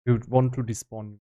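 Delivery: usual speaking voice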